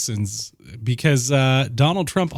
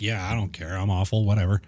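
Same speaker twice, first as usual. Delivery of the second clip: careless shrug; 6 semitones lower, 4 dB quieter than usual. Retold or imitated. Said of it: "if you're just like".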